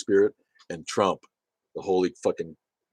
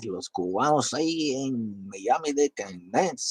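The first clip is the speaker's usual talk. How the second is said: mock Cuban Spanish; 6 semitones higher, slower than usual. Imitating Miami Cubans.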